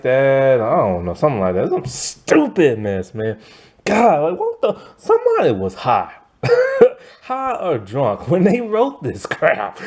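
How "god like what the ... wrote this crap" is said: laughing. Real, not acted. Mocking the show, laughing.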